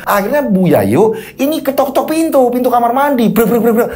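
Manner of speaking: high-pitched, suspenseful storytelling; dramatic ghost-story narration. A narrator's reading. Storyteller recounts Bandi's night drive, dramatic ghost-story narration. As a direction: drive the horror tale along.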